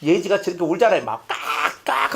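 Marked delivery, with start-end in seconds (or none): 1.8-2.1 mock wailing of a crying baby; imitated baby cry. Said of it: "하면서 울면은요".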